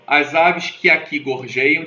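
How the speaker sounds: "As aves que aqui gorjeiam" read slowly, syllable by syllable; slow scansion. Shown as a demonstration. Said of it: "de novo, o que há". (leitura lenta marcando as sílabas)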